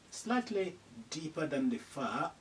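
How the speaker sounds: usual speaking voice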